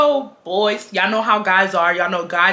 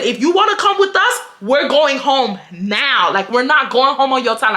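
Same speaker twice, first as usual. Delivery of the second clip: mad, firm, slowed; getting mad; 4 semitones higher than usual. Retold or imitated. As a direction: stretch out going home now like a final warning. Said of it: "I said".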